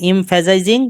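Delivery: emphasizing spelled out slowly for notes; slow dictation. Shown as a demonstration. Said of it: "লেখেন". (ধীরে ধীরে লিখিয়ে দেওয়া)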